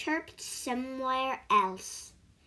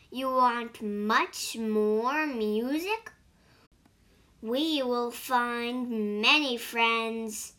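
a cricket drawing its words out slowly; eager little cricket, slow and pleased; storybook cricket offering more music, slowly; slower than usual. Acted.

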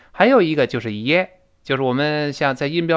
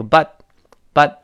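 "but" cut short with a small pause after; slight break after but; 5 dB louder than usual. Shown as a demonstration. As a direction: stop briefly on "but", t unreleased. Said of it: "稍微顿挫一下这个but".

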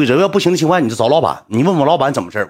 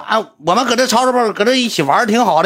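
lightly raised mimicking voice, complaining; a hint of a nagging woman, pitched up; mimicking the woman complaining to the boss; imitating the woman; 5 semitones higher than usual. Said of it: "那女的说".

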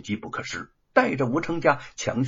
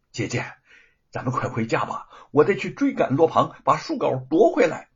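urgent; 2 semitones higher, 4 dB louder than usual. Acted. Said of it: "急切地向着吴承家说".

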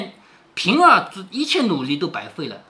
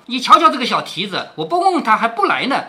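sarcastic, higher scolding; mock the lazy maid with sarcasm; 3 semitones higher, 3 dB louder than usual. Qingwen mocking Zhui'er, sarcastic. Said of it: "晴雯说".

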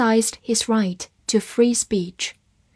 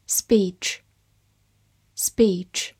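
whispered review; 2 semitones lower than usual. Shown as a demonstration. Vocabulary review repetition.

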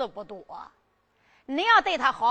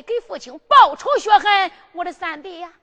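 tearful plea; 4 semitones higher, 7 dB louder than usual. Acted. Emperor pleads about his father.

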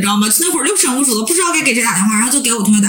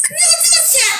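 much higher wheedling start; coaxing scammer. Retold or imitated. Scammer calling back about the money, high coaxing. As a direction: ease into the next ask.

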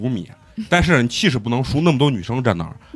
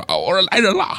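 mild mock yell; 7 semitones higher than usual. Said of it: "结果我就开始喊".

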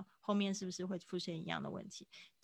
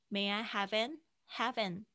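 "have an" merged as "ha-van"; linked have an. Shown as a demonstration. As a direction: join "have" and "an" smoothly. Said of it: "这个have跟an可以连音".

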